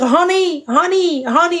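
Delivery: high cooing honey, drawn out; mock sweet talk. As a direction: imitate a smooth lover calling her honey. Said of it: "Il me parle que comme ça".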